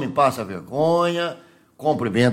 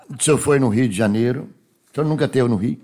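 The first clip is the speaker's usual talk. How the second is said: usual speaking voice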